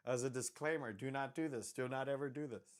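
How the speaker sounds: loud disclaimer. Acted. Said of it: "I forgot I'm on YouTube".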